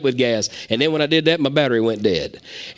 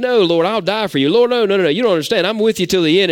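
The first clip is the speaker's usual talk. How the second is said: Peter's eager protest; 5 semitones higher, faster than usual. Retold or imitated. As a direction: insist like Peter swearing loyalty.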